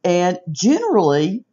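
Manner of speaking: ordinary talk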